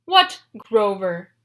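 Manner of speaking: slow, loud menacing giant; slow looming cyclops threat; glowering. Acted. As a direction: growl the question suspiciously. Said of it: "Polyphemus glowered".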